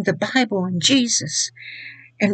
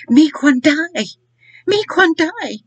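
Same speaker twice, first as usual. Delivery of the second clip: imitating a grandmother's broken English, higher; calling out in halting broken English, pitched up; 7 semitones higher, 4 dB louder, slower than usual. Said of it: "in her broken English say".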